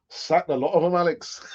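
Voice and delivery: badly faked Irish accent; jokey, unconvincing Irish accent; terrible Irish accent. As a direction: have a go at a hammy Irish accent. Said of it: "that's a terrible Irish accent".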